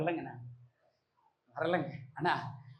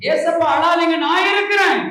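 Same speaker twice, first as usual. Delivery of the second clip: higher, shouted climax of the prayer; 7 semitones higher, 8 dB louder than usual. Shown as a demonstration. Preacher shouting the prayer for the congregation to repeat. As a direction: cry it out at the top of the voice. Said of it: "ஏசப்பா அழாதீங்கன்னு சொல்லுங்க".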